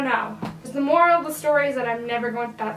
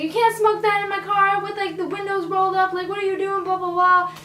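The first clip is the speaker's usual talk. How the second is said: higher, louder mock scolding; imitating angry scolding; 7 semitones higher, 3 dB louder than usual. Woman scolding the man smoking in her car, mock angry. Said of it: "She's like".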